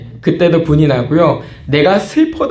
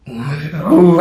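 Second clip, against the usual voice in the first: acted groan of bottled-up anger; strained holding-in groan; much slower than usual. Person bottling up anger, mock strained groan. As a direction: hum tightly as if keeping it in. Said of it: "하고 있다가".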